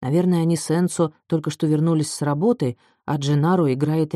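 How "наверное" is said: ordinary delivery, nothing marked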